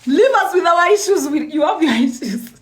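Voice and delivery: laughing through a mocking impression; mock quote, laughing. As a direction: tease them with a chuckling imitation. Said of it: "every South African says it".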